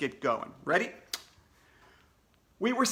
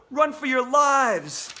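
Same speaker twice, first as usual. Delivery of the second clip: loud, higher, slow alarmed cry; panicked shout; 8 semitones higher, 8 dB louder, slower than usual. Acted. A kid screaming as the bear enters, panicked shout. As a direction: yell it like fleeing for your life.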